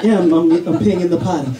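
low, awkward embarrassed dad; flustered dad. Retold or imitated. Dad caught in bathroom by daughter, low and flustered. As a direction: stammer out an excuse.

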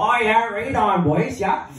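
lightly voiced jobsite guy small talk; a hint of a laddish worker, slightly drawled; construction worker. Worker greeting the boys with last night's news, laddish. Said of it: "tired of being the same old".

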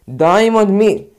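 slow, loud call; calling out again. Real, not acted. Gamer yelling the player's name again.

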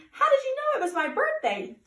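high-pitched, thrilled question; excited surprise. A narrator's reading. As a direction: ask it high, amazed and delighted. Dory delighted at finding singers.

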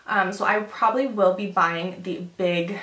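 breathless while talking; slightly winded, catching breath. Real, not acted. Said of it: "why am I out of breath".

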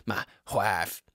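put-on an old-fashioned dad grumbling about his son; gruff father. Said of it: "This is my father".

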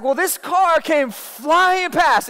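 high, slow, heated retelling of the angry pastor. Retold or imitated. Youth leader imitating his furious pastor, high and slow. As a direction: let the pastor's anger rise as he tells it.

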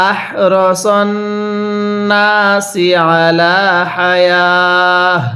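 slow, chanted Quranic recitation. Shown as a demonstration. Teacher recites the verse for students to learn. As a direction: draw each syllable out melodically. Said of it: "এরকমভাবে শিখব।".

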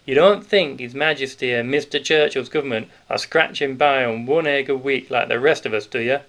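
put-on a big grocer letting the children in on a secret; hearty Yorkshire grocer. Grocer voiced through the scene.

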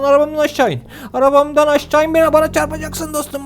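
officer yells as the stolen car nearly hits him; yelling order. Acted. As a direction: shout at the driver to get out.

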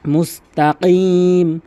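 মুস্তাকিম with a deep back-throat ক; মুস্তাকিম with an Arabic qaf. Shown as a demonstration. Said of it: "কফের উচ্চারণ করতে হবে".

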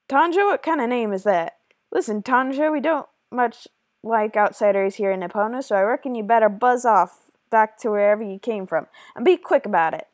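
hammed-up Western bully accent. Junior tells outsider Tanja to leave, Western accent. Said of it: "I tried to do a Western accent".

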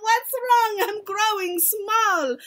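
high-pitched acted panic; alarmed cry. A narrator's reading. Witch mimics tall boy shrinking, crying out. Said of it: "cries out".

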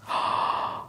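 gasp. Pretend. Mock amazement at bathroom.

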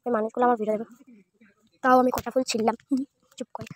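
hushed and shy; speaking softly, shy. Real, not acted. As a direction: keep it low, embarrassed. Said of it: "আমি এত আস্তে কথা বলছি কারণ কি আমার লজ্জা লাগছে".

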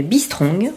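"Be Strong" said slowly with a strongly rolled R. Shown as a demonstration. Naming her red yarn to listeners, "Be Strong" with a proudly rolled R. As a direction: roll the R in "Be Strong" deliberately. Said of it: "le beau R bien prononcé".

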